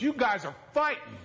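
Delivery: high little-boy voice, a touch mock; child's voice. Preacher voicing his young son noticing the fight, high childlike. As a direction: imitate the small son catching his parents.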